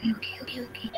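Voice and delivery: breaking-up call audio; corrupted glitchy audio. Real, not acted. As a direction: voice cutting in and out. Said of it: "Suaranya putus-putus".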